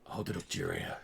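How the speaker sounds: a deep, low-voiced cowboy; gruff cowboy vampire. Cowboy vampire instructs player.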